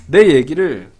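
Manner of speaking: speaking around a bite; chewing between words; talking while eating. Real, not acted. Seen 0: Leans to the pot with a bite at his mouth early, then sits up.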